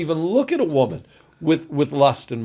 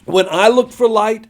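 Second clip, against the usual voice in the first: lament reading; 8 semitones higher, 5 dB louder than usual. Acted. Reads Job's lament with feeling.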